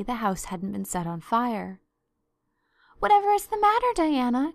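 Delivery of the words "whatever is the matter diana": loud, high alarmed cry. Acted. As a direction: call out in sudden alarm. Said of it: "cried Anne".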